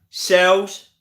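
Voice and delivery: put-on Dave said clearly for a toddler to repeat; prompting a child. Shown as a demonstration. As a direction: model the word for a baby. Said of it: "Can you say this?".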